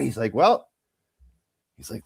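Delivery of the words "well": hammed-up high well. Acupuncturist voiced in story.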